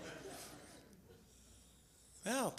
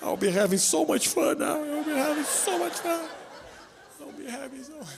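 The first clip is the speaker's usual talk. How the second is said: giggling mock glee; 5 semitones higher than usual. Mock giddy fantasy.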